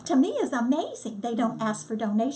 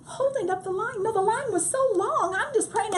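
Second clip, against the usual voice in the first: laughing; 9 semitones higher than usual. Real, not acted. Recalling being told to stop praying.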